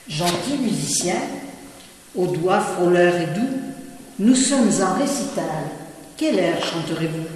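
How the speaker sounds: declaimed verse with a ringing opening, then settling; poem recitation. Acted. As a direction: recite it line by line, with pauses. Recites own poem to musician.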